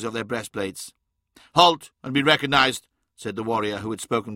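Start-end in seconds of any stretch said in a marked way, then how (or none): 1.5-2.9 loud formal guard's order; commanding challenge. Acted. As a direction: bark the challenge at the intruders. Guard challenges the approaching party.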